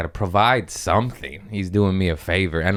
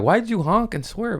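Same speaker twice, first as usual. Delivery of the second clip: mocking passengers; 14 semitones higher than usual. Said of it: "they're like".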